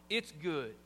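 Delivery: sincere "It's good", falling low; right tone. Shown as a demonstration. Preacher shows husbands how to praise food sincerely. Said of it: "change the tone".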